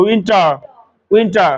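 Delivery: উইন্টার ending in a clear r; American pronunciation. Shown as a demonstration. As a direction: sound the final r of উইন্টার. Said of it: "র নিয়ে আসবে".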